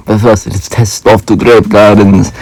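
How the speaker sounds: put-on Meta Knight Spanish accent. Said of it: "that was my Meta Knight voice".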